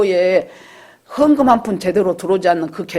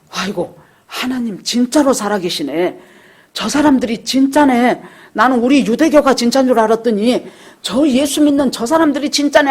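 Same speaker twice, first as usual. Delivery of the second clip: retold exclamation, higher and louder; amazed realization; 5 semitones higher, 3 dB louder than usual. Convert exclaiming to the church, higher and louder. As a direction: play the convert stunned that it's true.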